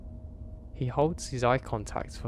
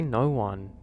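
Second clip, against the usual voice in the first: mild anger. Acted. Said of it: "somewhat angrily".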